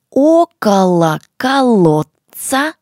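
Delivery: slow, loud, every syllable clear; to someone hard of hearing. Shown as a demonstration. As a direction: say it slowly so they follow. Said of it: "Ещё раз также".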